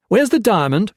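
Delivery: loud, high demand; angry demand. A narrator's reading. Gray furiously demands the diamond from the king, loud.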